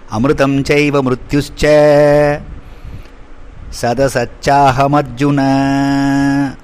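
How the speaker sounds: slow, measured chant of the verse; Sanskrit verse recitation. Acted. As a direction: intone the shloka evenly, like scripture.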